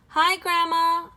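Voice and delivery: high, loud and drawn-out hello; a slow, sing-song little girl greeting; cheerful girl greeting. Acted. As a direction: call out brightly like a little girl.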